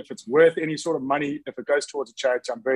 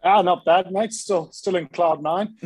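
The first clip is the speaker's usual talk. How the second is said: broad Scottish accent; 4 semitones higher, 3 dB louder, slower than usual. Real, not acted. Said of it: "the broad Scottish accent".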